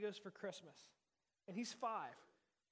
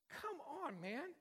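louder, higher, teasing rebuke from God; God scolding; 5 semitones higher, 5 dB louder than usual. Retold or imitated. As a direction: scold yourself like God telling you off, half-joking. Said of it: "He's like".

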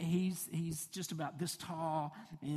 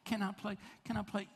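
put-on eager kid asking; 5 semitones higher than usual. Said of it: "he's just always so".

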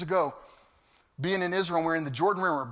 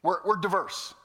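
mock patronizing; 3 semitones higher than usual. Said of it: "They said they had ethnic diversity".

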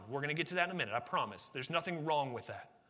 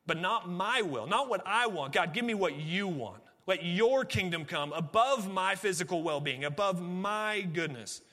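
fervent prayer; 4 semitones higher, 5 dB louder than usual. Acted. Voicing Jesus' surrender in Gethsemane.

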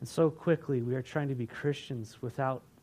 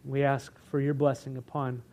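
prayer. Acted. Closing prayer.

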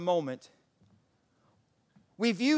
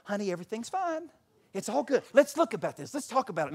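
lightly raised, coaxing voice; imitated wifely reassurance; 4 semitones higher, faster than usual. Wife calming her complaining husband, lightly imitated reassurance. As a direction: soothe a grumbler along.

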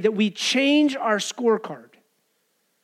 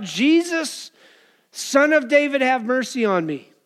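raised, higher-pitched cry for mercy; mild acted shout; 4 semitones higher than usual. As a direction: call out to Jesus, pitch falling toward the end. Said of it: "he begins to shout".

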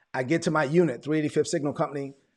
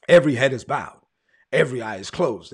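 imitating a pastor's measured, low altar call; lightly voiced preacher calling for bowed heads; 2 semitones lower, 5 dB louder than usual.

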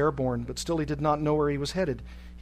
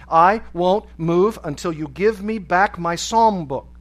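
slow, loud, word-by-word refusal; defiant protest; 3 semitones higher, 8 dB louder, slower than usual. A narrator's reading. Prisoner refusing to board the plane, loudly defiant. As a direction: hammer each word out in protest. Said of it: "dropped to the snow in protest".

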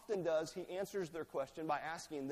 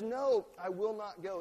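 louder, slow stubborn refusal; abrasive refusal; 3 semitones higher, 5 dB louder than usual. Acted. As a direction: dig in and refuse. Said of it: "Quite abrasively".

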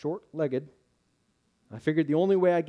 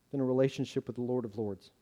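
ordinary delivery

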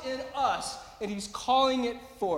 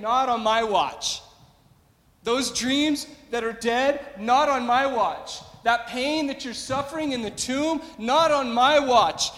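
defiant declaration; 3 semitones higher, 6 dB louder than usual. Acted. God defiantly refusing death.

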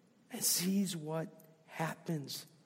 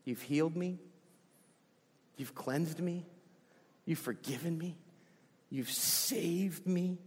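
quiet prayer of thanks; 3 dB quieter than usual. Retold or imitated. Preacher leads the church in thanking God, softly. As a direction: let each thanks settle, gently. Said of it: "We say".

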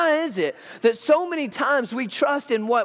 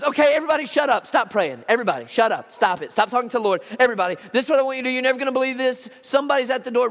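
breathless excitement; much faster than usual. Retold or imitated. Rhoda bursting into the prayer group, excited. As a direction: hush the room in a rush. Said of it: "and she goes".

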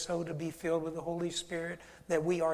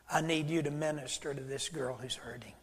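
whisper; 5 dB quieter than usual. Retold or imitated. God's voice speaking to him.

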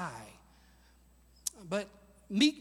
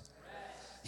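whisper; 21 dB quieter than usual. Shown as a demonstration. Pastor leading the congregation in repeating rest, whispered. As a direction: breathe the word rest out in a soft whisper. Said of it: "Everybody say that word".

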